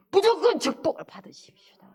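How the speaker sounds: loud rallying call; emphatic declaration. Shown as a demonstration. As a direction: punch it out for the congregation to follow. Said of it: "그렇게 받아야 돼".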